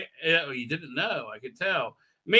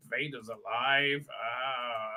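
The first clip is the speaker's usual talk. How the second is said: low, slow, softer musing; hushed, lower brooding delivery; pensive realisation; 5 semitones lower, 8 dB quieter, much slower than usual. Retold or imitated. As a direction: think aloud, letting the news sink in. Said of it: "he's thinking about Darth Vader".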